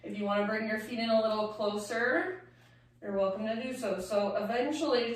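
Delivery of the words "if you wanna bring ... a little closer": normal talking voice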